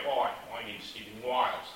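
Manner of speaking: imitated Australian accent, "Wales" turned into "Wiles". Australian friend introducing himself by name, imitated Australian accent. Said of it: "I know about Australian accents".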